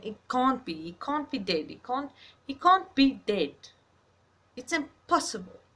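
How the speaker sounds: rising into a loud, high, anguished he can't be dead; disbelieving denial. Retold or imitated. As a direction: relive the moment the loss won't sink in. Retelling denial after a death.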